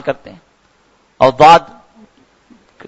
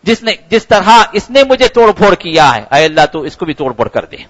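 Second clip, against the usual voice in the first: pleading complaint; 3 semitones higher than usual. Acted. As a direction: cry out a grievance to God, then ease down. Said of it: "اور کہتا ہے کہ".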